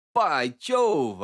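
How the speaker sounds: understated burst of sudden interest; mild cry. Acted. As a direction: narrator perking up at the news, mild exclamation. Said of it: "I cried".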